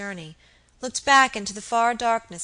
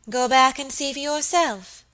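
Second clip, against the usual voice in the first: louder, stern order; 5 semitones higher, 7 dB louder than usual. Acted. Lady Audley sending Phoebe away, stern. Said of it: "answered Lady Audley sternly".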